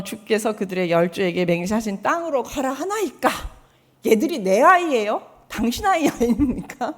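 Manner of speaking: loud, aggrieved complaint to God; Moses complaining. Retold or imitated. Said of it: "하나님께 원망을 하는 거죠". (하나님께 큰 소리로 원망하는 모세)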